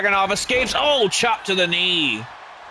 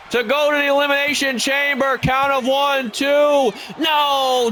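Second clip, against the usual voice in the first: excited shouting; 7 semitones higher than usual. Real, not acted. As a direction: yell the near fall. Near-fall climax called live.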